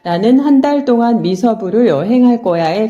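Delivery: 나는 한 달 동안 미서부를 여행할 거야 with every syllable evenly timed; syllable-timed Korean reading; 나는 한 달 동안 미서부를 여행할 거야, one beat per syllable; even syllable timing. Shown as a demonstration. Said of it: "각 음절들이 모두 같은 길이로".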